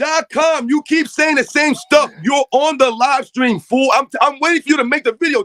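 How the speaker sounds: angry shout. Real, not acted. Host yelling at a chatter who keeps repeating himself, angry shout. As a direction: hammer each word at the chatter. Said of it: "I'm always yelling".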